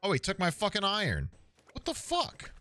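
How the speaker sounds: high-pitched protest, rising to a squeal; outraged disbelief. Real, not acted. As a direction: squeak it out, indignant. Goblin steals iron.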